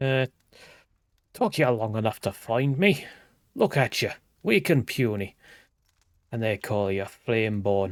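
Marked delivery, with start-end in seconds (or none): 1.3-7.9 put-on accent drifting from Scottish to Irish to Jamaican. Game character greets the player called Flameborn, accent drifting Scottish to Irish to Jamaican. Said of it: "went from Scottish to Irish to Jamaican".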